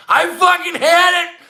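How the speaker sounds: fed-up outburst. Real, not acted. Worn-out ranter erupts about the year that beat him, a loud fed-up shout. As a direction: let it burst out, you're done with it. Exasperated outburst ending a rant.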